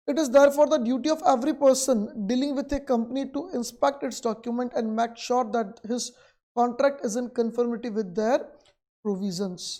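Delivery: reads the textbook line out very slowly, word by word; slow dictation. Acted. Teacher dictating the textbook definition to students, very slow. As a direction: dictate it so students can write.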